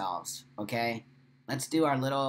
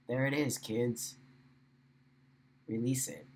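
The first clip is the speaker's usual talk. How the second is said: guided meditation. Acted. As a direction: talk them through letting go. Leads a cleansing meditation.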